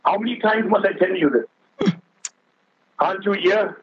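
impatient grown grandson snapping, lightly acted; scolding. Grown grandson scolding his old grandfather, mildly acted. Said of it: "And then he scolded".

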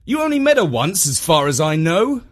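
high, loud protest; exclaiming. A narrator's reading. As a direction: object with a jump in pitch. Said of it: "exclaimed Jeff".

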